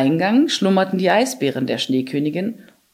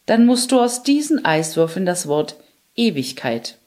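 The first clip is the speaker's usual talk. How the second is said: commanding. Acted. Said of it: "befahl die Schneekönigin".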